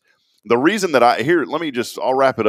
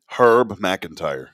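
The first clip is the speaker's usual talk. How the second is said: announcing a prank name; much slower than usual. Shown as a demonstration. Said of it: "I just thought of a name".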